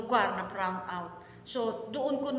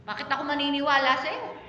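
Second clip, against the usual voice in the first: scoffing unbeliever; 3 semitones higher, 3 dB louder, faster than usual. Retold or imitated. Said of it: "sasabihin nila".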